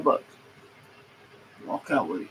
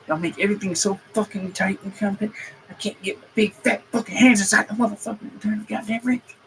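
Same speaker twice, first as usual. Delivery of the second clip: pitched up, exasperated griping at engineers; raised frustrated rant; 5 semitones higher than usual. Real, not acted. Mechanic venting at engineers over cramped engines, exasperated. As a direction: vent it, voice climbing with frustration. Ranting at tight engine bays.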